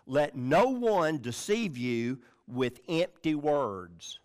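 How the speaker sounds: "no one" stressed, the line drawn out slowly; emphatic. Shown as a demonstration. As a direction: hit "no one", then take it slowly. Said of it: "and that's emphatic".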